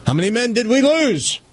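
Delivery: high-pitched captain asking the crew; captain asking a crew member after the battle; captain's question. Acted. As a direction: ask it like a worried captain.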